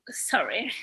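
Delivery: a breathless whispered apology, fighting back tears; choked-up whispered sorry. Real, not acted. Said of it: "I'm being a little emotional".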